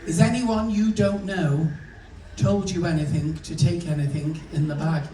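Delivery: mildly snotty, deliberate questioning; a touch of the officious desk clerk; dead snotty. Acted. Check-in woman runs through security questions, mildly snotty. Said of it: "she's dead snotty".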